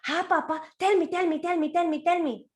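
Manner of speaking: high eager pleading; high excited tell me; excited baby crocodile. Acted. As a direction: beg eagerly like an excited child. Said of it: "So baby was very excited".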